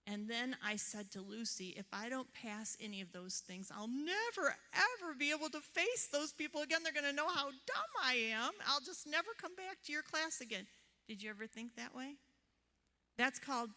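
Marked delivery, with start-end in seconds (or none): 1.7-10.7 higher, anxious catastrophizing rant; mock panic. Telling Lucy she'll never face the class again, mock panic. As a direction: spiral into exaggerated worry.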